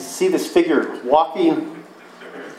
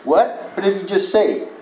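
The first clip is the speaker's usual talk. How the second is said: confused disciples; 4 semitones higher than usual. Retold or imitated. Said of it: "They looked at each other".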